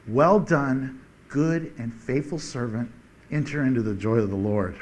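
soft, low voice of the Lord; the Lord speaking. Retold or imitated. The Lord welcoming a faithful servant, softly. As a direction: speak it gently, like a blessing. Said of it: "You get to hear the Lord say".

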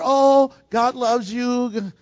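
drawn-out, syrupy mock reassurance; mock soothing. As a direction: croon it slowly, parodying feel-good religion. Mocking what people want to hear.

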